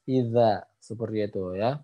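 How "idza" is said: Idza with dz as a voiced th; tongue-tip dhal. Shown as a demonstration. Teacher drills the letter zal, tongue-tip sound. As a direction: put the tongue tip to the upper teeth for Idza. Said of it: "ujung gigi seri atas".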